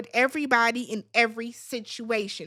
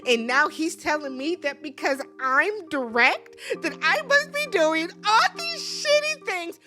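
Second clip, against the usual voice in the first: mock crying Rhonda. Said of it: "now she's crying".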